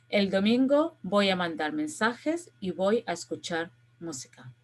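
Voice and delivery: measured Spanish reading for pronunciation; model read-aloud. Shown as a demonstration. Teacher reading the text to students so they can hear pronunciation, model read-aloud. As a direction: read each sentence out for learners to follow, pausing between them. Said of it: "reading the text for you so you can listen to the pronunciation".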